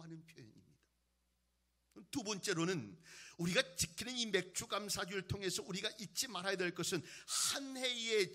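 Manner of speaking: loud pulpit exposition, easing at phrase ends; strong, projected sermon voice; forceful preaching. Real, not acted. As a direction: expound it emphatically to a congregation.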